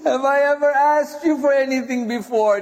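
quick, impassioned plea after weeping; hurried, grieving appeal; urgent plea. Acted. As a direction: gather yourself and implore your brother. Restarts Zainab's plea after sobbing.

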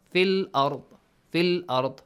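fil said short, one count. Shown as a demonstration. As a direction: say fil as if there is no ya. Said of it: "as if there is no ya".

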